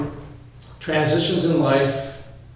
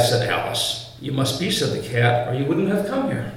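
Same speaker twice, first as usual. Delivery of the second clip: lightly voiced reading of Alice and the cat; a preacher reading a storybook passage with light character voices; story reading. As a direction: read the tale aloud to the congregation. Reads Alice passage aloud.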